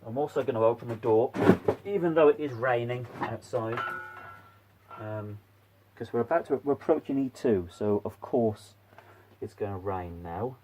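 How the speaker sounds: talking through a face mask; muffled behind a mask. Real, not acted. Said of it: "if I sound a bit muffled".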